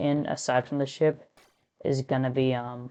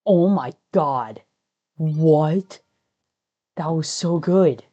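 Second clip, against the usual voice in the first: amazed shout; 3 semitones higher, 8 dB louder, slower than usual. Real, not acted. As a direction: shout in disbelief at the run. Amazed at his own run.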